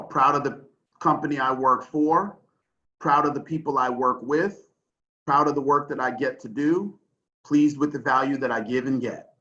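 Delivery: measured list, pausing between items; said slowly. Shown as a demonstration. Repeating four questions for people in the chat, slowly. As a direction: read each item out slowly with a clear break after it. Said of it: "I'll say them slowly as well".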